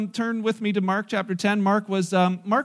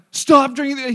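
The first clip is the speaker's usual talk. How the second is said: higher, loud mock-angry command; fed-up father; 6 semitones higher, 8 dB louder than usual. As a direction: order the child as if at the end of patience. Father who lost it orders son.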